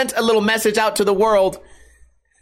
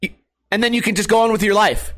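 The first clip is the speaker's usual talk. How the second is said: usual speaking voice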